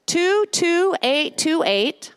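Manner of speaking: two two eight two eight, each digit spaced out slowly; slow, clear number. Shown as a demonstration. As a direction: read the number slowly so they can type it. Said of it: "giving the text number".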